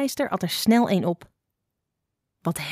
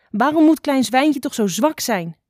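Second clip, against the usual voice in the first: anguished lament; 5 semitones higher, 4 dB louder than usual. A narrator's reading. Mother boar laments her weak child.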